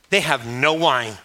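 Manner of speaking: mildly irritated, worried mother, drawn out slowly; a hint of a worried mom's complaint. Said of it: "irritated and worried voice".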